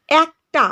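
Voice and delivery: "একটা" opening on an open æ sound; open "æ" vowel. Shown as a demonstration. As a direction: say "একটা" deliberately as æk-ta. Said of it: "এ বর্ণটার উচ্চারণ এ ধ্বনিটির মতো". ("একটা"-র এ অ্যা ধ্বনিতে)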